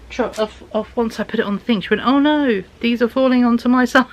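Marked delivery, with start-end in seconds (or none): 2.1-4.1 mock alarm. Mum's mock alarm at the checkout.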